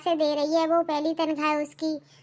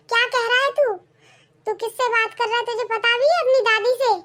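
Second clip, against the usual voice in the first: higher, indignant rebuke; angry scolding; 4 semitones higher than usual. Acted. Grandma rebuking grandson for rudeness, indignant scolding. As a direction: scold him like an offended grandmother.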